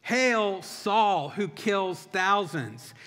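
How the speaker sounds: restrained imitation of a shouting crowd; mock crowd shout. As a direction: hail him slowly like a cheering crowd, half-shouted. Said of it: "the people are shouting".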